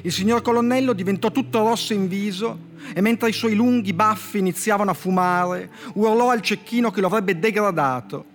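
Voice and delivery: dry literary fable reading; story reading. Acted. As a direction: read the fable like a deadpan poet. Poet reads his fable aloud.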